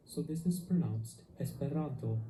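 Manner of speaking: Esperanto with the stress on ran, second to last syllable; teacher models the accent on the second to last syllable. Shown as a demonstration. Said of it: "the accented syllable is always the second to last syllable".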